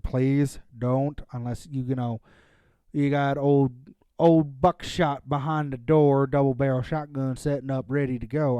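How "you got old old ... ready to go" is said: put-on Southern accent. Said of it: "I suddenly dropped in a Southern accent there".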